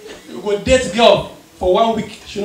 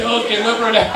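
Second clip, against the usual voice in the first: happy stoner. Retold or imitated. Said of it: "They are always happy for no reason".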